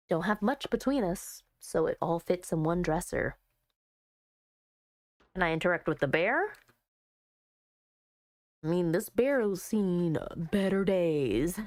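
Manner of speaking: lightly voiced, low edgy heroine; a low, low-key loner; edgy girl, low voice. Reading Heather's dialogue.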